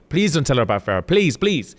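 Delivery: lightly acted pleading, rising in pitch at the end; imitated imploring; mock begging. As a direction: retell a grovelling plea. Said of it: "On his hands and knees begging".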